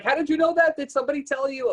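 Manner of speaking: high, loud, stunned questions; imitating a startled, tearful client; shocked and upset. Client shocked the reader knew her miscarriage, high loud disbelief. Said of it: "she started to cry".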